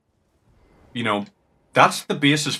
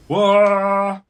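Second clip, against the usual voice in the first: startled yelp; 10 semitones higher, 8 dB louder than usual. Real, not acted. Startled by enemy attack.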